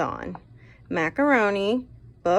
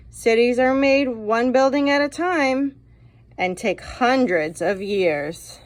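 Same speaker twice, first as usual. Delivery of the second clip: higher, louder grandpa lecturing; a know-it-all grandpa setting the boy straight; 4 semitones higher, 4 dB louder than usual. Acted. Teacher voicing the grandpa lecturing, higher and louder. Grandpa voiced in read-aloud story.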